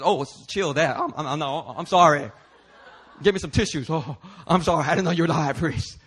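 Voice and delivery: laughing, mock-sheepish backpedal; sheepish apology. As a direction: play Paul caught out, giggling through the apology. Paul's sheepish backtrack, laughing.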